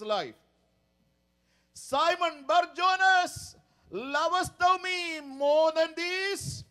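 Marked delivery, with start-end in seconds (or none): 1.7-6.6 slow, raised, searching question; gentle Jesus voice. Acted. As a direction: ask it slowly like the Lord asking. Jesus questions Peter, read slowly.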